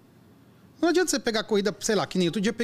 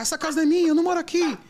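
much higher and louder, a yelled denial; retold shouting; 12 semitones higher, 5 dB louder, faster than usual. Drugged passenger yells at the driver, shouting. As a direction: yell it like the drugged girl in the car. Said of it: "Começou a gritar".

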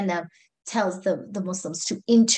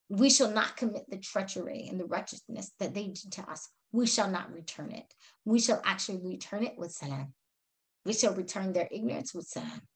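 soft, lower-pitched, solemn vow of mercy; restrained resolve; 3 semitones lower, 6 dB quieter than usual. Acted. Companion on not repaying treachery, softly resolute. Quoted refusal to take revenge.

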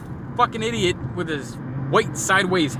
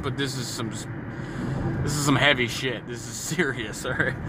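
laughing through it; 5 semitones lower, 6 dB quieter than usual. Real, not acted. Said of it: "I know I'm laughing".

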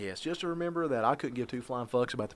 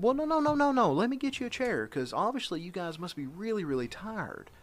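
mock polite offer; 9 semitones higher than usual. Dad's mock politeness to old men.

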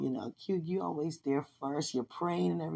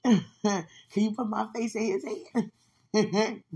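slow, giggling request; playful laughing plea; 3 semitones higher, 5 dB louder, slower than usual. Real, not acted. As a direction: ask God through laughter, teasing.

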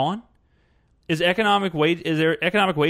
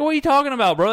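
incredulous; 10 semitones higher, 5 dB louder, much faster than usual. Retold or imitated. Mocking an imagined reply.

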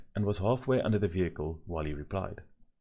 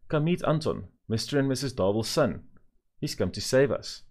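excited mother; 6 semitones higher than usual. A narrator's reading. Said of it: "said Mother loudly".

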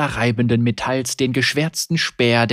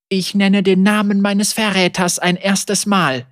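raised, higher voice; ritual incantation; 7 semitones higher, 4 dB louder than usual. Acted. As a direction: chant it with fury. Ritual naming of the traitor.

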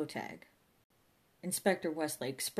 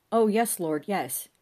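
fervent assent; 4 semitones higher, 8 dB louder, slower than usual. A narrator's reading. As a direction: answer God with eager devotion. O'Fagan answers the Lord.

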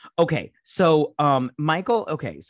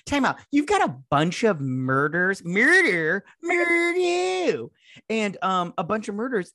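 high outraged disbelief; high incredulous rant; 7 semitones higher than usual. Retold or imitated. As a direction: push higher with each murder. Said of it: "I'm all like".

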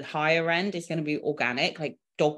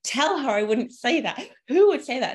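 high, loud and slow, outraged; milk every word of the outrage; dramatic indignation; 7 semitones higher, 6 dB louder than usual. Retold or imitated. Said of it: "She was so dramatic".

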